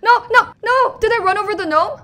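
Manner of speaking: high, loud, repeated protest; panicked at a possible accident; alarmed cry. Real, not acted. Player thinks they ran over the gnome, alarmed cry.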